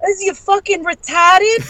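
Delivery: high, slow, screechy scolding; shrill mock outrage. Wife yelling after body-checking husband, high slow screech. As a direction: shriek it like a scandalized aunt. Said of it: "all you hear is".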